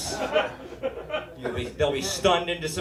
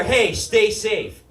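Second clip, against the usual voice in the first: caring goodbye; 4 semitones higher, 3 dB louder, much slower than usual. Retold or imitated. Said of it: "they go".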